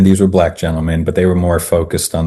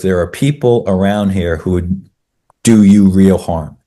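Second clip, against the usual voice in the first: lightly imitated Southern warning, slowing at the end; Southern colloquialism. Young Texan warns the walkers, light Southern manner. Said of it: "in some Southern colloquialism".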